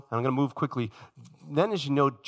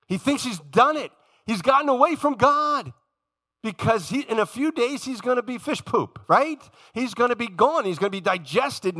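higher, louder mocking tone; mock triumphant; 8 semitones higher, 3 dB louder than usual. Preacher mocking Jonah thinking he escaped God, higher and louder. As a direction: sneer at Jonah's false victory.

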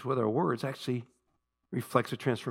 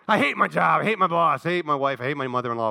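mock venomous rant, starting loud; venomous griping; 5 dB louder than usual. Worldly person swearing about job and family, venomous. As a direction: rattle off grievances with imitated bitterness. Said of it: "they're filled with venom".

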